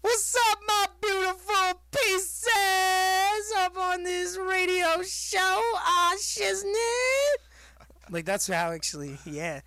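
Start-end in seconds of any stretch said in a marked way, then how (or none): 0.0-7.4 very high, loud, slow hype voice; show-opening catchphrase in a cartoon high pitch; Dame Drops voice. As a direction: squeak it out like a hyped-up radio host. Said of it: "I'm gonna start talking like that again".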